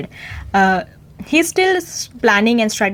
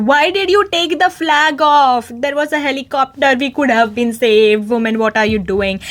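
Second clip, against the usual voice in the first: angry outburst, retold; 3 semitones higher than usual. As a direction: act out exasperated accusation, pitched up. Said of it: "He angrily goes there and says".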